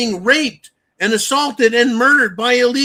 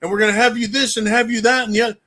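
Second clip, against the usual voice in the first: mock Israel; 4 semitones higher than usual.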